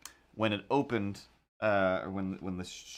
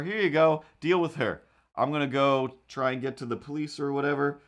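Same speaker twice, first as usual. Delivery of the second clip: hurried Billy; 3 semitones higher than usual. Retold or imitated. Billy hands her off.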